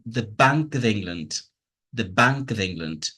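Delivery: BANK and ENGLAND strong, "the" and "of" as schwas; stress-timed rhythm. Shown as a demonstration. Teacher showing the music of English, stress on BANK and ENGLAND. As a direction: beat on Bank and England, squeeze "the" and "of". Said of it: "So this will sound".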